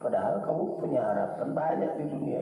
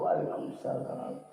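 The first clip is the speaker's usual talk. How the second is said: sweet welcoming wife; 3 semitones higher than usual. Retold or imitated. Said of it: "disambut sama istriku".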